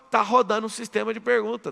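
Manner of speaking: ordinary talk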